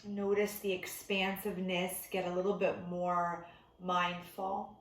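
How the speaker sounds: unhurried meditation teacher, long pauses between instructions; guided meditation. Real, not acted. Meditation teacher settling listeners into breath before bed, calm guided delivery. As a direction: ease them gently into stillness, leaving room to breathe.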